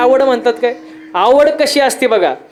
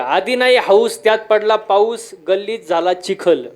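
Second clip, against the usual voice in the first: slow proper recitation. Shown as a demonstration. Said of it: "आता मी सांगतो, ऐका".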